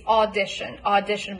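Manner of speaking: "audition" opening on an ah as in law. Shown as a demonstration. Coach giving the law-vowel variant of "audition". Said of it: "with an ah as in law".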